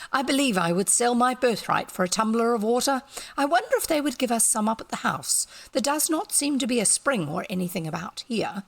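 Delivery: lightly voiced parched complaint; a touch of a hot man longing for water; thirsty man. Sedgwick wishing for water, lightly voiced.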